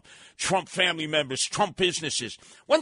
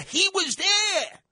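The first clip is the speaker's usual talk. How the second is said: shouted; 13 semitones higher, slower than usual. Real, not acted. Radio host shouting at listeners about a politician. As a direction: belt it out in outrage.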